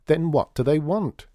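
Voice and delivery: high, loud insistent call; insisting. A narrator's reading. Old mother insisting from the next room, high loud. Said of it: "insisted Missus Krebs".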